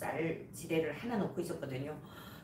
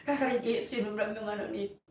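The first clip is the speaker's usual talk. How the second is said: recalled commanding prayer; 2 semitones higher than usual. Retold or imitated. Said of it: "기도했던 그 생각이".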